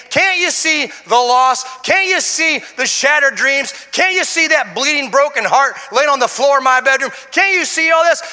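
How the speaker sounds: agitated father demanding answers; agitated pleading. Retold or imitated. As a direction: plead harder and harder, slowly. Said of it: "I heard my voice very agitated".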